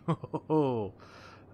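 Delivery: short chuckle of relief; relieved laugh. Real, not acted. Gamer who thought they were done for, relieved laugh.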